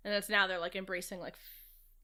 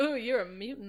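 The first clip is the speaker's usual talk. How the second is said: suave, flirtatious, heavily charming delivery; 2 semitones higher than usual. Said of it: "Suave guy".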